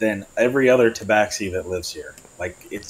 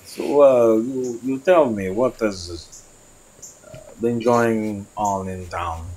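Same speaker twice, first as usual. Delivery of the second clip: slow, measured cat-folk voice; drawn out, careful asking; slow in-character question; much slower than usual. Acted. Tabaxi to the town contact, slow and measured. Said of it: "I'm gonna be like".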